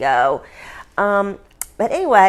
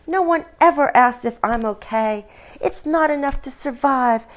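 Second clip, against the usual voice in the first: mock whiny complaint, pitched higher; mock sob story; 3 semitones higher than usual. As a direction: parody a self-pitying lament. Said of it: "quite the sob story".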